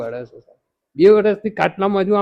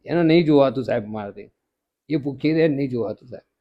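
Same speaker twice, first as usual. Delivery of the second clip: choked, tearful and low; crying; 3 semitones lower, 4 dB quieter than usual. Real, not acted. Father tells the interviewer of his hungry daughter, weeping. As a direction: speak through tears about his daughter. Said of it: "તમે રડશો નહીં હવે?".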